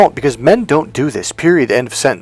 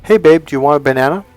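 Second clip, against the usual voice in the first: casual and light; relaxed everyday offer, fast; natural, subtle; 3 dB louder, faster than usual. Shown as a demonstration. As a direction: offer it easily, no push. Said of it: "in a much more natural, subtle way".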